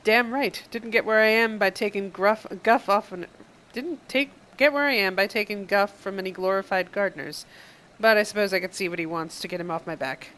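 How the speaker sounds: brash pirate. Acted. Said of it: "I'm gonna say that one".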